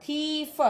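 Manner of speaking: थीफ with the ee held long; long ee vowel. Shown as a demonstration. Teacher spelling out the sound, long ee. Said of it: "थीफ बड़ी की मात्रा".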